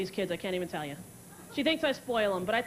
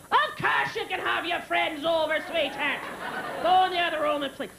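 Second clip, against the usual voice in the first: lightly mocked dad, raised pitch; a hint of a dismissive father; oblivious dad; 5 semitones higher than usual. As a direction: imitate a dad brushing off his kid. Dad voiced in story.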